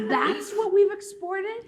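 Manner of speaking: high, drawn-out question through laughter; laughing disbelief. Retold or imitated. Incredulous reaction, laughing through it.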